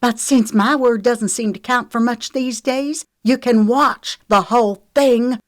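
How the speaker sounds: high, loud bursts of resentment; resentful. A narrator's reading. Lexi offers Trent the footage, resentful. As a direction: spew it out bitterly. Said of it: "her resentment spewing out in short bursts".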